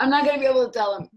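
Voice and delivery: high, loud, rushed mock protest; hammed-up screamed complaint; mock screaming. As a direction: yell it quickly as the maimed villain, for laughs. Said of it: "was screaming".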